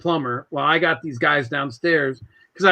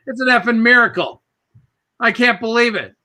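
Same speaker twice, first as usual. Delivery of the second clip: mock-amazed New Yorker, pitched up; wife's New York accent; 5 semitones higher than usual. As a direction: imitate an astonished wife with a New York accent, higher than usual. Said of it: "my wife in her New York accent".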